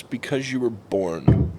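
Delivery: slow, level deadpan; retold deadpan. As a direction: deliver it slowly, without emotion. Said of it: "looked me dead in the eye".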